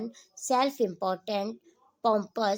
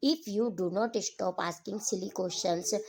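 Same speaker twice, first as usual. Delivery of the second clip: a lightly cold, slow threat; a hint of icy warning, drawn out; a mother coldly scolding her daughter, understated; much slower than usual. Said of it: "Mrs Pearson coldly".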